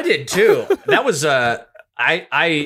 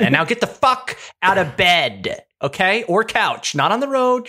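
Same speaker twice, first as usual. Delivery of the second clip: bossy wake-up call; 9 semitones higher, slower than usual. Pretend. Telling sleepers to get up.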